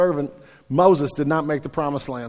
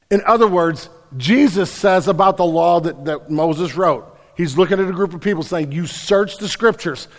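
louder, higher, slow and pounding sermon peak; rising preacher's cry, each clause hammered harder; preaching at full force; 5 semitones higher, 7 dB louder than usual. Acted. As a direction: drive it home to the congregation like a revival preacher.

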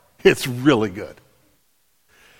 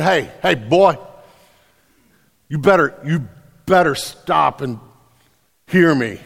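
scolding mama; 2 semitones lower than usual. Retold or imitated. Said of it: "that was mama's way of saying".

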